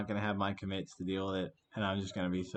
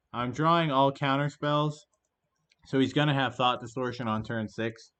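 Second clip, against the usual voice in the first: frustrated complaint; 2 semitones higher, 6 dB louder than usual. Real, not acted. Streamer complaining about the draws, loud frustrated grumble.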